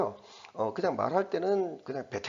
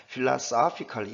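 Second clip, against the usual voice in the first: "philosophical" with a clear punch on "soph"; stressed English reading; much slower than usual. Shown as a demonstration. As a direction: lean on the third syllable of "philosophical". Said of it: "이런 식으로 강세 넣으면은".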